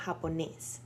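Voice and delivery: japonés with the weight on the last syllable nés; japonés, stressed at the end. Shown as a demonstration. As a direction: land hard on nés in japonés. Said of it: "the accent mark is, is in the E".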